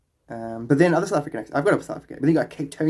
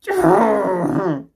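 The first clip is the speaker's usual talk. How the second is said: high, loud sound falling away; loud vocal outburst; 8 semitones higher, 7 dB louder than usual. Real, not acted. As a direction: let out a long, falling cry. Tired, long loud wordless sound.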